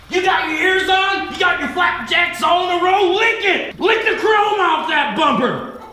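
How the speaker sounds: harsh barking commands. Acted. Instructor barking orders at trainees.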